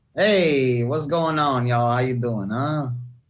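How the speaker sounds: terrible, exaggerated put-on Italian accent. A comedian just introduced on stage greets the audience, bad italian accent. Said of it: "that Italian accent gave me I B S".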